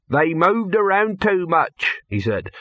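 complaining handleman. Acted. Handleman objects to how the trolls moved, complaining.

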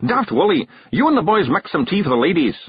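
a wee Scottish chief giving orders; Scottish pixie. A narrator's reading. Rob orders the boys to make tea, Scottish bark.

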